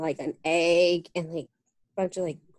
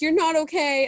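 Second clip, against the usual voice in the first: voicing aunt; 6 semitones higher, 4 dB louder than usual. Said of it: "she's like".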